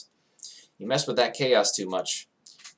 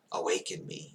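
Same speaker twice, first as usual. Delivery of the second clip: breathed; 3 semitones lower, 6 dB quieter than usual. A narrator's reading. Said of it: "it breathes".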